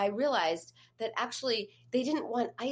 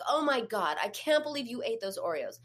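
mean inner voice; 3 semitones higher than usual. Retold or imitated. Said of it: "this was all her inner dialogue".

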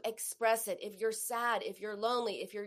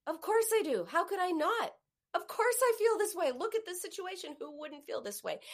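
validating; 8 semitones higher than usual. Shown as a demonstration. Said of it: "you have to say".

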